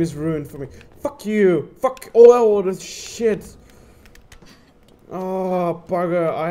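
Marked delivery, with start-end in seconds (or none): 1.0-3.6 loud furious yell; angry outburst. Real, not acted. Gamer yelling at the ruined game in fury. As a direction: blow up at the game.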